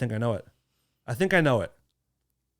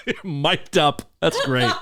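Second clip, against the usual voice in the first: laughing; slower than usual. Real, not acted. Laughing at the callback.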